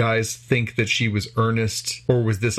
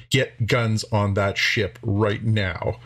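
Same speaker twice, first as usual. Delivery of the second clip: slow, deliberate mock command; an admiral's order, drawn out slowly; much slower than usual. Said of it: "is basically like".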